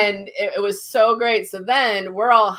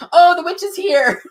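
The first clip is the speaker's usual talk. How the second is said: higher, louder thrilled cry; Kat's echoing gasp of wonder; excited recognition; 12 semitones higher, 9 dB louder than usual. Retold or imitated. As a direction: announce it with a start of delight. Friend Kat says same words.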